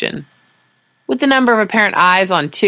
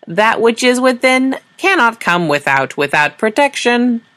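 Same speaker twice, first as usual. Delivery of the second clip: slow, higher, otherworldly drone; alien translator voice; 7 semitones higher, slower than usual. Acted. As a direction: alien device intoning a cryptic reply to Sora, slow and higher.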